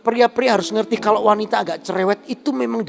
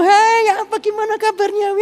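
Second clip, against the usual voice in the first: much higher, bright gushing hello; gushing party greeting; 13 semitones higher, 3 dB louder than usual. Retold or imitated. Woman at a buffet greeting a friend, gushing and high. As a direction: greet a friend like an excited chatterbox.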